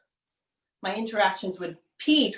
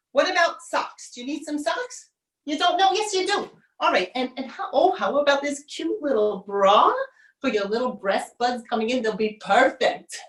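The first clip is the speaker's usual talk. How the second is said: pushy mom; 2 semitones higher than usual. Acted. Mother pressing bra on her daughter, chirpy. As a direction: chirp through the shopping list like a pushy mother.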